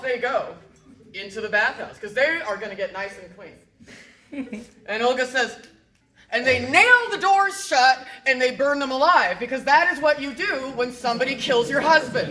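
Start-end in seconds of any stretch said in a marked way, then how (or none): 6.3-12.3 loud and punchy; emphatic. Acted. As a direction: hammer the refrain. Punchline repeated loudly.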